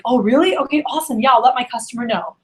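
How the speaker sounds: demonstrating an excited reply; upbeat, eager rep reaction. Shown as a demonstration. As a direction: react as if pleasantly surprised by the deal. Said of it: "like, get excited".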